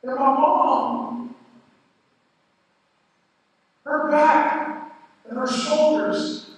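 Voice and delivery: forcing out each piece of what he saw; halting grief. Real, not acted. Finding mom cut up.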